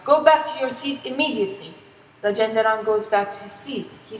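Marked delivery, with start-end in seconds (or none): 0.1-1.7 mildly raised, stern order; restrained mock shout; angry shout. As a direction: order them back with a touch of anger. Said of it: "He gets angry and shouts".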